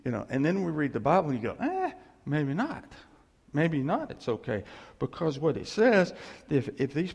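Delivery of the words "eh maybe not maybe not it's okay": waver as if backing out; reluctant hedging. Acted. Acted reader balking at the Bible.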